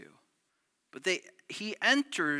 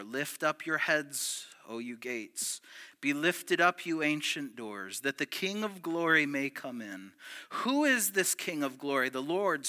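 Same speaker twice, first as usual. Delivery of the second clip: solemn psalm reading; 3 semitones lower, 4 dB quieter than usual. Shown as a demonstration. Preacher reciting Psalm twenty-four, hushed and reverent. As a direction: read it like a temple psalm. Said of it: "was read from Psalm twenty-four".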